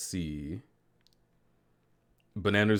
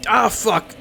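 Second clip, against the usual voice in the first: sharp loud pained yelp; burnt fingertips; 12 semitones higher, 7 dB louder than usual. Real, not acted. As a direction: yelp at burning your fingers. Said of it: "I burned my fingers".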